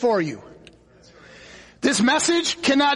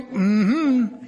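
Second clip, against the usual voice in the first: mock devil's hum; 2 semitones lower than usual. Preacher mimicking the devil on the road, mock hum.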